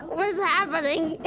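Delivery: lightly voiced cartoon wife, bewildered; mock-distressed cartoon wife; Lois. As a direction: ask it as a cartoon mom losing her grip. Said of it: "Lois experiences ego death".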